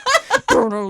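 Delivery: high, playful imitated remix riff; silly vocal instrumental; remix intro noise. Shown as a demonstration. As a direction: mouth a beat-drop riff through laughter. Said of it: "Big Booty remix".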